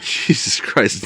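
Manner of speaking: slow whispered disbelief; watching the gator video, slow whisper of shock; awed whisper. Retold or imitated. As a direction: breathe it out slowly, stunned. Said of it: "I was like".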